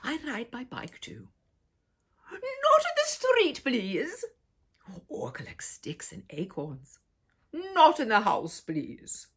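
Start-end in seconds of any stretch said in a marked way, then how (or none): 2.3-4.2 mock stern warning. Grown-up rule voiced. 7.5-9.3 mock stern warning. Grown-up rule voiced.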